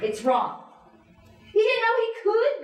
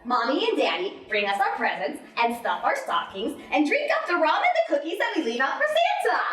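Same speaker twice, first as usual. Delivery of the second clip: put-on child's voice. Children repeating that there is no Santa, childlike sing-song. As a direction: swing the pitch like a child repeating news. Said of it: "How many times have we heard it?".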